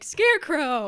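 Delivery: loud angry mob shout. Retold or imitated.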